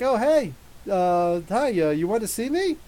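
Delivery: hammed-up goody-goody kid greeting the teacher; fake innocent kid. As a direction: play the tattletale all innocent. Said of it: "He's like".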